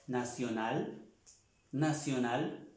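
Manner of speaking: nacional said clearly, c as s; model pronunciation. Shown as a demonstration. Teacher models nacional for the class. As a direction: repeat nacional slowly for students. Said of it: "la C se cambia por una T, pero se pronuncia igual".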